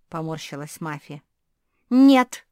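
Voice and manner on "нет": sharp, loud no; quick loud retort. Acted. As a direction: shoot back instantly. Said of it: "мигом возразила Куки".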